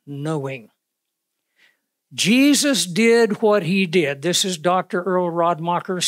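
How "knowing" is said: KNOWING low and soft after a pause; pause, then drop gravely onto KNOWING; KNOWING set apart, softer and falling; emphasis on KNOWING. Shown as a demonstration. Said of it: "notice the emphasis on the word".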